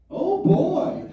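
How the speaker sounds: put-on high, loud gleeful "Oh boy!"; a burst of childlike glee; like a kid spotting dessert; delighted oh boy. Shown as a demonstration. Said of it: "I will hear myself involuntarily say".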